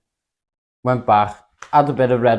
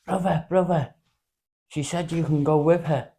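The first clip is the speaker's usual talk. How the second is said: lightly imitated Greek accent, higher pitch; a hint of a Greek man's accent; 3 semitones higher, 6 dB quieter than usual. Local lad runs up to pass on her message, mock Greek accent. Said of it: "that's his Greek accent".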